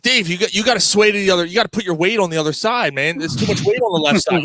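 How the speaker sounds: urgent retold plea. Telling Dave to sway the other way, urgent retold plea. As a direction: plead with him to shift over, mock-urgent.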